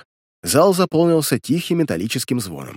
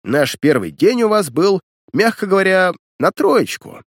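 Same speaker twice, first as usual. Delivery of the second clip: lecturing; 6 semitones higher than usual. Acted. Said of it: "продолжал нотацию".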